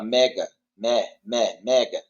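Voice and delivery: "Mega, me, me, mega" with ME stressed and open; emphasis on epsilon. Shown as a demonstration. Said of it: "a ênfase é no épsilon".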